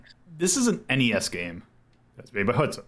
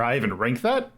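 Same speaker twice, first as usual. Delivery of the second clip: disbelieving question, rising on THAT; incredulous. Real, not acted. Streamer doubting the game is missing from the ranking, incredulous. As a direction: question it, lifting the end on "that". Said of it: "you gotta sound incredulous when you say it".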